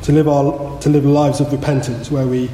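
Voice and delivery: measured, subdued prayer voice; public prayer. Real, not acted. Preacher asks God for help to repent, prayerful. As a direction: lead the congregation gently in prayer.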